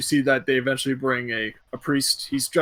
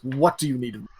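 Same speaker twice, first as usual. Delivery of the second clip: lightly exasperated, resigned question; worn-down reluctance; weary sigh; 3 dB quieter than usual. Acted. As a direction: give in with a tired sigh. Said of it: "He sighs".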